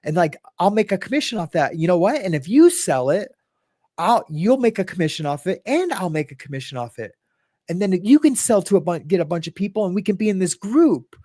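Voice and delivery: lightly acted salesman, pitch lifted; eager Amway recruiter. Recruiter explaining commissions to a friend, lightly hammed-up eagerness. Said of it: "reenactment of, you know, ninety".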